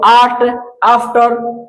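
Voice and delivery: आर्ट and आफ्टर opening on long आ; long AA sound. Shown as a demonstration. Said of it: "आ का तो".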